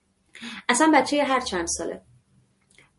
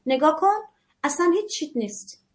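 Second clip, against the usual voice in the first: dismissive mother; 4 semitones higher than usual. Pretend. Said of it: "این کلام آشناس براتون".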